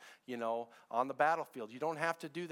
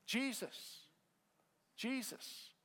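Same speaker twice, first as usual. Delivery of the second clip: softer, held-back Jesus; hushed Jesus; 7 semitones higher, 7 dB quieter, much slower than usual. Acted. Pastor quietly naming the answer to the church, hushed. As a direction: drop it down and let the name land.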